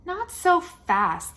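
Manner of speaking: slow, loud and high dramatic cry; booming tub monster. Acted. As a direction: boom it out as the monster leaps in. Tub bursts in.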